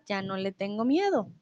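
soft unvoiced whisper. Shown as a demonstration. Teacher sharing her lost childhood fear, whispered. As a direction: whisper it like a secret. Example about fear of darkness.

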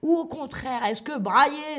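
bawling contrast to the whisper. Shown as a demonstration. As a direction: call it out loudly to show brailler. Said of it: "Que signifie brailler".

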